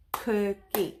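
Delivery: cookie said in two beats, COO-KIE; clapped syllables. Shown as a demonstration. Teacher to kids, clapping out the syllables. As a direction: split cookie into its two claps. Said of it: "How many sounds do you hear in that word".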